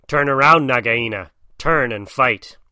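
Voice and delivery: loud challenge, slowing on the last words; crying out a challenge. Acted. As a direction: call the snake out to fight. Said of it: "Rikki Tikki came up and cried".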